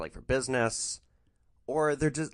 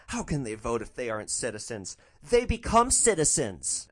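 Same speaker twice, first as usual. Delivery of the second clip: amazed repeat. Retold or imitated. Passenger echoes driver's question in amazement: mock surprise. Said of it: "repeats to herself in amazement".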